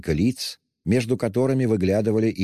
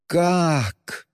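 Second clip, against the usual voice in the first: sharp, much higher cry; sudden cry; 11 semitones higher than usual. A narrator's reading. Katerina cries out, suddenly coming to, sharp and high. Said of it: "вскрикнула вдруг, опомнившись, Катерина Ивановна".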